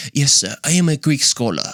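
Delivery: a hint of a pompous Greek scholar; jokingly posh scholarly voice; mock scholar. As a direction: play the self-important professor lightly. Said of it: "let me put on my glasses".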